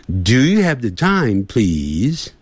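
"Do you have the time, please?" with "please" rising at the end; rising yes-no tune. Shown as a demonstration. Teacher showing students the rising tune on "please". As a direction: lift "please" upward as a yes-no question. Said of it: "那个问句声音要上扬哦".

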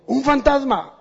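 high startled cry of fear; frightened cry. A narrator's reading. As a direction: cry out as if seeing a ghost. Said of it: "y gritaron de miedo".

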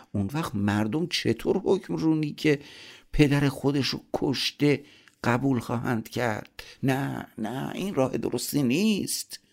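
high-pitched, troubled protest; bewildered and distressed objection; confused, torn. A narrator's reading. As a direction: refuse in confusion, voice climbing high. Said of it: "ضحاک که گیج و سردرگم شده بود".

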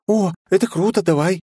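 put-on high, chattering bubbly young woman; high lively girlish chatter. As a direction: rattle it off excited and girlish.

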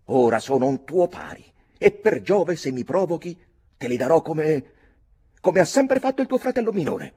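put-on high, loud boyish fury; furious threat. Redmond threatening cousin Mick, high and furious. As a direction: threaten him with a sword, shaking with rage.

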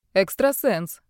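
proud answer. Acted. Hawaiian-shirt man tells his gift, mildly proud. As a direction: say it with mild pride. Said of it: "гордо ответил гаваец".

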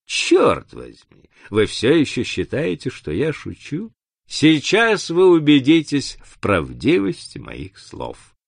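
narrator's hissing villain threat; emphatic, exasperated villain; angry hiss. A narrator's reading. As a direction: threaten with mounting impatience. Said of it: "прошипел негодяй".

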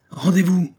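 high, loud call to surrender; shouted order. Acted. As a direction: bark it at the enemy soldiers. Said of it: "cria Antoine".

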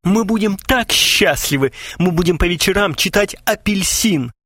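high mock-feminine chirping; coquettish squeak. A narrator's reading. Gromov as fiancée dreams of evenings, squeaking. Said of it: "пропищал Громов, кокетливо".

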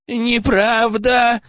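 a high, stretched-out scream of denial; desperate wail. Acted. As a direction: howl the denial. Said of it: "завопил Тихомир".

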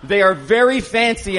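mock Italian accent. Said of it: "my Italian accent is very legitimate".

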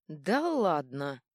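slow, loud drawn-out exclaim; tipsy loud disbelief; drunken exclamation. Acted. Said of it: "воскликнул Шут".

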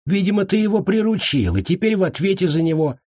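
high-pitched teasing amusement; amused. A narrator's reading. Healer teasing his friend about responsibility, amused. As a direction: tease with no actual laughter. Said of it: "рассмеялся эрлиец".

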